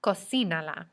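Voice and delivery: Cocínala stressed on the second syllable, CI. Shown as a demonstration. Teacher modelling a command with pronoun attached, Cocínala stressed on CI. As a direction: lean on the í of Cocínala. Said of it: "place an accent over the I".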